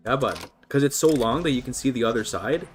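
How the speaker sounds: light Canadian accent, chatty; native Canadian accent. Real, not acted. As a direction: slip into a homegrown Canadian accent. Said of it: "go into my native accent".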